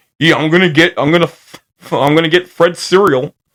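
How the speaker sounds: stumbling cartoon character voice, tripping over words. Showing how Barney sounds in the later cereal commercials: Barney Rubble voice. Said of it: "the Barney we know".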